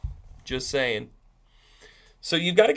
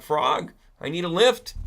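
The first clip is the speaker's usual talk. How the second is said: lightly acted scorpion, louder and lifted; a hint of a storybook scorpion, raised voice; scorpion asking a favour; 4 semitones higher, 5 dB louder than usual. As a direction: call out the request to the frog. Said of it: "Scorpio ... says to the frog".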